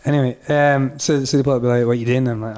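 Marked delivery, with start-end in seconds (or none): 1.9-2.3 lightly Scottish police question; wee Scottish accent. Retold or imitated. Police questioning hitchhiker, in a wee Scottish accent. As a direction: ask it with a Scots accent. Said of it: "do the rest in a wee Scottish accent".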